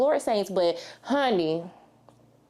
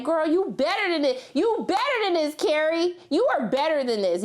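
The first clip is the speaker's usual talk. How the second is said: judging cat; 6 semitones higher than usual. Pretend.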